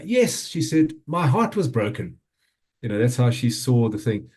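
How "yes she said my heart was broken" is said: put-on little girl voice. Dad voices toddler daughter's reply.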